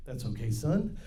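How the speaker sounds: a hint of Bob Ross calming a child. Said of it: "I started doing that to my son".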